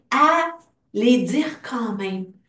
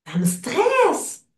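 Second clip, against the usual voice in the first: higher and drawn-out, leaning into stresse; slow emphatic stress; 8 semitones higher, 4 dB louder, much slower than usual. Acted. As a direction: stretch ça me stresse slowly, pitched up. Tapping affirmation, stressed feeling.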